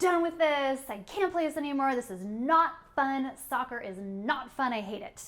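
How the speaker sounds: mild mock tantrum; frustrated kid. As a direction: vent like a fed-up little kid. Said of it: "just so frustrated".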